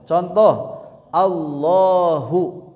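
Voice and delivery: "Allahu" with a thick, full lam, slow; "Allahu" said slowly with a thick tafkhim lam; heavy lam. Shown as a demonstration. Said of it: "kesananya tebal, tafkhim".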